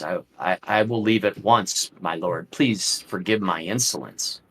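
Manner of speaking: a hint of an ashamed abbot; defeated and ashamed. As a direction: give up in shame before your master. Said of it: "completely defeated and ashamed".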